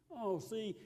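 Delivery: ordinary talk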